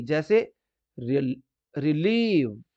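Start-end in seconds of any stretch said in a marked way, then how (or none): 1.7-2.6 RILEEV with a long, drawn-out ee in रिलीव. Shown as a demonstration. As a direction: stretch the "ली" in रिलीव slowly. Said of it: "आ रही है ना बड़ी ई की sound".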